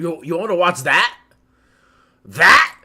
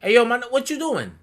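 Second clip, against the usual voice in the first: loud, higher hammed-up New York voice; New York dub Frieza; 6 semitones higher, 7 dB louder, slower than usual. Friend imagining Frieza in a New York dub, loud. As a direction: call out ayo like a Bronx guy on the corner. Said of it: "New York version".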